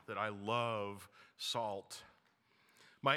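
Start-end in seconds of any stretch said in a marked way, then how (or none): 0.1-2.0 playful confession. Real, not acted. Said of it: "I'm just gonna confess that to you".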